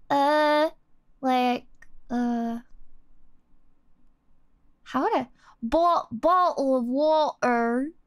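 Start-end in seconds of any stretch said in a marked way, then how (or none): 5.6-7.9 slow blend of Southern and British; mixed Southern-British accent. Shown as a demonstration. Streamer trying a requested blend, Southern-British accent. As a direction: attempt British crossed with Southern, drawn out. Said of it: "Mixed Southern and British accent".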